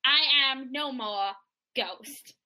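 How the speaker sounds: Valley Girl meets Australian, put-on American; fake American accent. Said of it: "fake American accent there".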